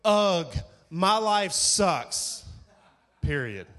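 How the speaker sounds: a loud, drawn-out mocking groan of self-pity; mock whiny complaint. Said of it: "girls that get on Twitter and they go".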